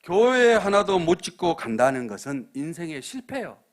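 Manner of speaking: loud, slow, weighty declaration; forceful preaching. Real, not acted. Pastor warning the congregation, loud and slow. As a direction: pound out the verdict from the pulpit.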